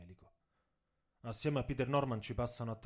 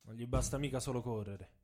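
bitter complaint; 3 semitones higher than usual. Acted. Tommy's quoted complaint.

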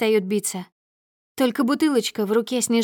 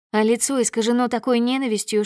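plain reading voice

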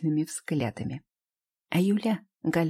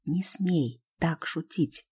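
huffing; slower than usual. Acted. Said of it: "пыхтит Галя".

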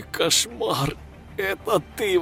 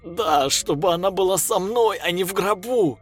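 angry retort; 10 semitones higher, 4 dB louder than usual. A narrator's reading. Lev retorts.

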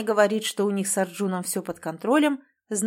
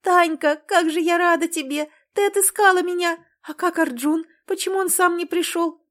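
much higher and louder, bursting with joy; overjoyed tearful; 9 semitones higher, 5 dB louder than usual. Acted. Natasha hugs her found sister, joyful and tearful, higher and louder. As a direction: cry out in happy tears to a lost sister. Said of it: "плачущей от счастья сестры".

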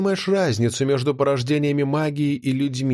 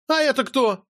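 much higher, startled and demanding; startled question; 12 semitones higher than usual. Acted. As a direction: ask in sudden alarm. Notti startled.

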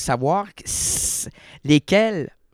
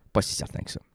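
whisper; 6 dB quieter, much faster than usual. Real, not acted.

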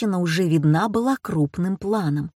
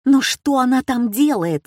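high, louder call after someone; shouting after; 6 semitones higher, 5 dB louder than usual. A narrator's reading. Josephine shouts after her son as he leaves, loud call. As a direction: call after him down the hall. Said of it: "закричала Жозефина ему вдогонку".

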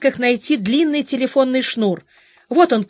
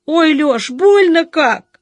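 in pain; 7 semitones higher, 6 dB louder, slower than usual. Acted. Wife in pain on phone.

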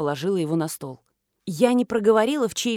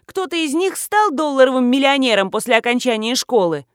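loud, sarcastic, higher challenge; attacking; 5 semitones higher, 6 dB louder than usual. A narrator's reading. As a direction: keep pressing her. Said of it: "продолжала нападать на меня". (язвительно нападая, громче)

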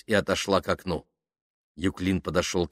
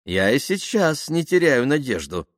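higher, hopeful voice with a smile; smiling; 7 semitones higher than usual. A narrator's reading. Dasha still hoping to be an actress, smiling. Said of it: "улыбнулась Даша".

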